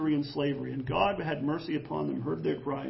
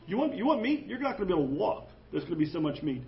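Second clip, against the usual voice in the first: sarcastic; faster than usual. Acted. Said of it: "my voice will make it sound sarc".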